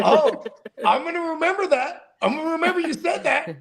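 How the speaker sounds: hint of playful indignation; lightly voiced Jesus. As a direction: play a huffy Jesus with a laugh in it. Voicing Jesus threatening a cheater.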